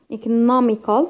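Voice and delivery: "economical" with the stress on NOM; stressed third syllable from end. Shown as a demonstration. Teacher counting syllables for students, stressed NOM in "economical". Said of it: "So third syllable".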